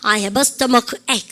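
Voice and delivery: slow model sentence; teacher drilling slowly; slow model phrase. Shown as a demonstration. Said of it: "시작".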